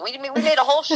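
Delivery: high, giddy voice breaking into laughter; gleeful, high-pitched laughing exclamation; laughing boast. Real, not acted. Laughing boast about the show.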